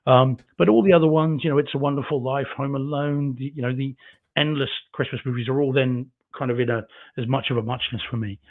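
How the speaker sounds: muffled, too close to mic. Real, not acted. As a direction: hand over mouth. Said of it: "the chat says I sound a bit muffled".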